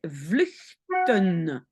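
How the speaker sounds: "vluchten" drawn out, syllable by syllable; careful word demo. Shown as a demonstration. Teacher showing learners the T in the verb, slow careful demo. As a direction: spell out "vluchten" slowly by sound. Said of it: "j'avais déjà un T au radical".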